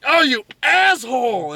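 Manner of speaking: high-pitched, hammed-up indignation; mock outrage. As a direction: curse him in mock pain. Acting wounded Peter cursing the guard.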